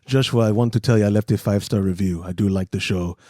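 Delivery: low, deadpan German impression; dry German. Host imitating a German listener leaving praise, bone-dry. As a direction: drop low and drain out the excitement. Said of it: "they're so dry. He could be like".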